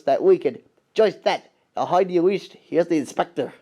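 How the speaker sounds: light Scottish accent, lightly put on; a hint of a Scottish railwayman; Scottish brogue, understated. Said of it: "that's my Donald Douglas voice".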